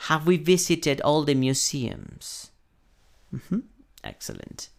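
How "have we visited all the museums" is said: "Have we visited all the museums" slow and careful; repeat-after-me "Have we visited all the museums", drawn out; slow classroom model of "Have we visited all the museums"; pronunciation model. Shown as a demonstration. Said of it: "estudiar un poco la pronunciación".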